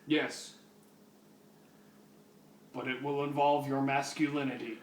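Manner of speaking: lightly voiced robot cop, even pitch; RoboCop. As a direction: do a bad stiff robot officer. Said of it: "That's the worst fucking RoboCop voice ever".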